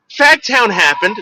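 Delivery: a lightly voiced burned-out rocker; imitating Wimpy. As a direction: play the spaced-out singer, slowly. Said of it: "That's what he told me".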